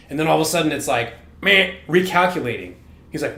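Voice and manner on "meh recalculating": lightly voiced machine announcement, higher and louder; imitated system alert. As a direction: mimic an app's buzzer and notice. Voicing the app's error announcement.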